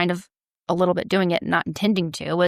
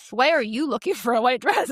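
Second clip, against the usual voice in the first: accusing judgmental question; 3 semitones higher than usual. Shown as a demonstration. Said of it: "It was".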